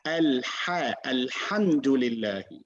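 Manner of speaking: Al-Ha and Alhamdulillahi with a constricted h from mid-throat; careful pharyngeal h in Alhamdulillahi. Shown as a demonstration. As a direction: model Alhamdulillahi, squeezing the h in the throat's middle. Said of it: "Just from the middle of the throat".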